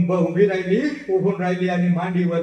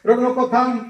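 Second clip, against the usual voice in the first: a son pleading with his weeping mother; rising urgent plea; 5 dB louder than usual. Retold or imitated. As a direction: beg her to stop crying, building. Son comforting crying mother.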